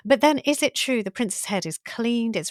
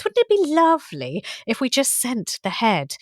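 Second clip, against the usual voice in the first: lightly voiced gloating witch; a hint of a scheming sister; witchy voice. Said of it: "in this witchy voice".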